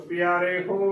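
ਪਿਆਰੇ ਹੋ as two words, with a clear "ho"; correct separated pronunciation. Shown as a demonstration. Teacher models correct Gurbani reading, ਪਿਆਰੇ ਹੋ clearly separated. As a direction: finish "piare", then sound "ho" fully. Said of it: "ਸ਼ੁੱਧ ਉਚਾਰਨ ਹੈ".

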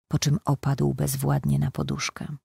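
usual speaking voice

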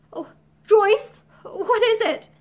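shocked. Acted. Pansy shocked at Joyce's tears.

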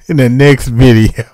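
laughing through the sign-off; chuckling it out. Real, not acted. Laughing after shout.

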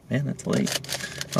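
slow whispered aside; whispering. Real, not acted. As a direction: breathe it out slowly, no voice. Aside about the late hour.

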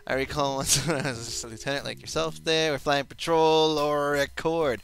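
hammed-up Irish barman voice; Irish accent. Reading Paladin's lines in a light mock Irish accent. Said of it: "Wow, you're Irish".

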